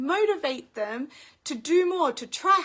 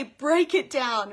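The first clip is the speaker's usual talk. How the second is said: slow, punched catchphrase; slogan; 6 dB louder, slower than usual. Shown as a demonstration. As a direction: stress each word of "Break it down" slowly and firmly. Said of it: "I always say".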